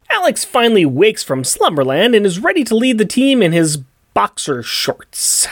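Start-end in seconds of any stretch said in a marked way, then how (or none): 4.1-5.5 whispering. Shown as a demonstration. Whispered punchline.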